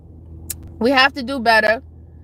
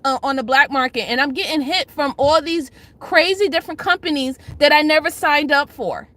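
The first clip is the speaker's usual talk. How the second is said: whiny fake sobbing complaint; mock crying. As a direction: ham up a tearful victim's whine, half-laughing. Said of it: "Are you now going to cry and say".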